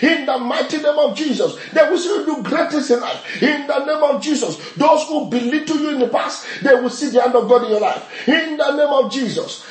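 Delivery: fervent, rapid-fire prayer declarations; preaching declaration. Real, not acted. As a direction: declare blessing with rising conviction. Preacher declaring blessings over congregation.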